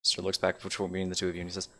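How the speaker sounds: soft, controlled threat; quiet and stern. Acted. Elrin warns the two about his lady, quietly.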